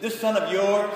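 "This son of yours" with stress on son, mild contempt; scornful son. Retold or imitated. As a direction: spit out "son" dismissively. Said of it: "when he said".

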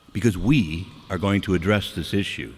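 "we" held and leaned on; stress on WE. Real, not acted. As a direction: lean on "we", then let the rest fall. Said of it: "that's the we".

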